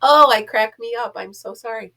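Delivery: normal talking voice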